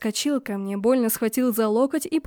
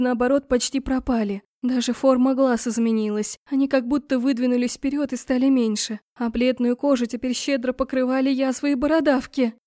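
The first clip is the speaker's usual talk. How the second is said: usual speaking voice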